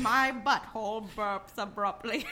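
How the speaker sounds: slow, laughing narrator voice, barely held; a poor Morgan Freeman read, cracking up; bad Morgan Freeman impression. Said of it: "My Morgan Freeman voice".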